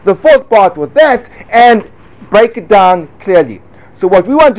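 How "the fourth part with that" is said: slow, deliberate breakdown; slow model answer. Shown as a demonstration. Teacher modelling a clear answer for students, slow and deliberate. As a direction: lay out each part slowly and clearly. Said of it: "What you have to do is you have to say".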